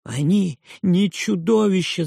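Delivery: high, loud protest; boy shouts. A narrator's reading. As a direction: shout back, fists clenched. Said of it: "закричал Робби". (крик мальчика, высоко и громко)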